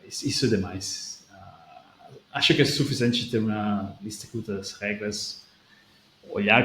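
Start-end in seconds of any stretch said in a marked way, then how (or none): none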